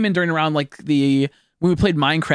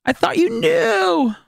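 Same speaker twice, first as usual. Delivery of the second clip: mock high sing-song; much slower than usual. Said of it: "apology repeated".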